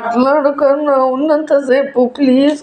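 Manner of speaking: crying plea. Acted. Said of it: "ఏడవకు".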